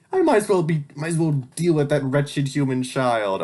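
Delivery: a hint of a theatrical schemer; overdramatic villain. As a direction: vow revenge on the child. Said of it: "how overdramatic".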